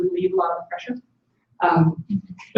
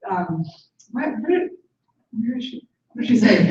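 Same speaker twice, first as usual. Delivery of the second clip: alarmed friend; 3 semitones higher, 4 dB louder than usual. Retold or imitated. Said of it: "she was like".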